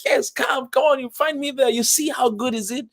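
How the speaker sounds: high-pitched, eager welcome; excited invitation. Retold or imitated. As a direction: urge them over enthusiastically. Retelling his keen invitation.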